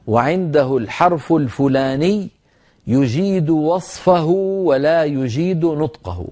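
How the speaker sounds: slow, measured wording for writing down; slow dictation. Shown as a demonstration. Sheikh's certificate wording for students to write down, slowly dictated. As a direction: dictate the formula phrase by phrase, pausing between. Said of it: "اسمعوا العبارة واكتبوها".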